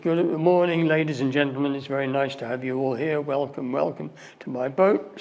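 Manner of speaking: tired boatman's welcome patter; lightly voiced weary boat guide; weary tour guide. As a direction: greet the tourists like a bored guide. Weary boatman guide greets tourists.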